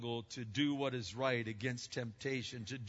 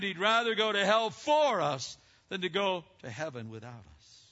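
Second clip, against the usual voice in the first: louder, higher, driving the point home; preached with force; 5 semitones higher, 7 dB louder than usual. Shown as a demonstration. Preacher to congregation, repeating it louder. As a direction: repeat it with full pulpit force. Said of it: "Jesus made up his mind".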